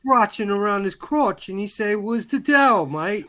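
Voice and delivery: mock British accent. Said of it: "are you your Jamaican character?".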